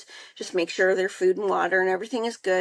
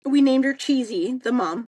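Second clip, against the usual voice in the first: excited announcement; 5 semitones higher, 5 dB louder than usual. Retold or imitated. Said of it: "She goes".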